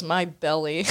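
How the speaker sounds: low, lightly voiced creepy Buu; a low hint of Buu; Majin Buu voice. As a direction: murmur it low like a strange monster. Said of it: "And he goes".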